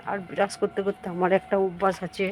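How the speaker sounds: talking around a toothbrush; words slurred by brushing; while brushing teeth. Real, not acted. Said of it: "brush করছি দেখতেই পাচ্ছেন".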